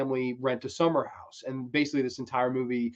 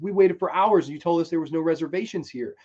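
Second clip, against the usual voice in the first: mildly indignant, raised pitch; mock furious complaint; 3 semitones higher than usual. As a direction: retell it as an aggrieved protest. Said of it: "John Candy's furious about it".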